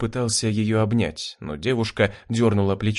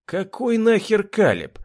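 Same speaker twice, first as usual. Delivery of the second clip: flaring up; 11 semitones higher than usual. Acted. Rudy flaring up at Jurgen's excuse, angry. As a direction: snap at him in sudden anger. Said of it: "вспылил Рудый".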